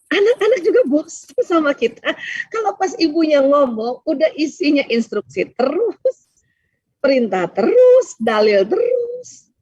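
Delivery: slow, tearful, voice catching; holding back tears on each phrase; choking up. Real, not acted. Tearful while telling mothers children tire of lectures. Choked up about nagging mothers.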